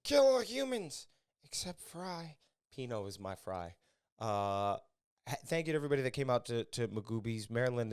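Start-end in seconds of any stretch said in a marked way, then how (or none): 0.0-2.3 high, slow drawn-out quote; mock robot quote. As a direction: stretch it out like a cartoon line. Quotes a cartoon robot's line.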